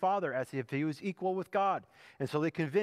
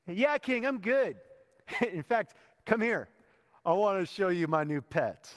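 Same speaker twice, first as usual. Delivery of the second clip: sarcastic comeback. Pretend. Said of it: "this is probably what I thought I would do".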